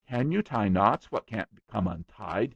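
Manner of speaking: put-on boy bragging to a guest, eager; eager small boy. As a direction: rattle on like a boastful little boy. William's boy voice.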